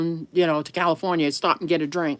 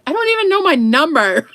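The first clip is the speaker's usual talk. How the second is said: "I don't even know my number" in a higher, louder, panicky voice; mock panic; 10 semitones higher, 5 dB louder than usual. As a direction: play up the panic with a laugh behind it. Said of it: "freaking out".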